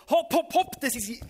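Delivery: loud high hopp hopp call; parents cheering. Retold or imitated. Preacher imitating parents calling to racing kids, loud cheer. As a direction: shout them on like a parent at the finish. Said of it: "die Eltern haben zugerufen".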